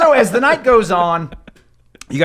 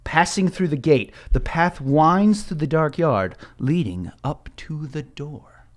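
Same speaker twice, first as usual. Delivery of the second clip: scene narration. Acted. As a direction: set the gloomy scene. Game master scene setting.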